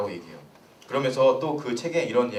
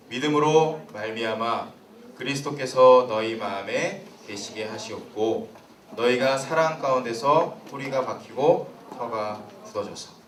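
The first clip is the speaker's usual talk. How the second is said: measured, slightly lowered reading voice; scripture reading; 3 semitones lower than usual. A narrator's reading. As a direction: read the verse out evenly to the congregation. Reads the Bible verse aloud. (성경 봉독하듯 차분하게)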